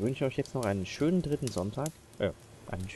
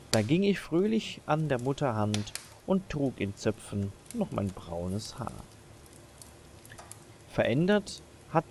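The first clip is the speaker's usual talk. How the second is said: measured, expressive poem reading with pauses; deliberate Advent verse recital; poem recitation; slower than usual. Acted. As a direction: recite a poem, slowing on line endings.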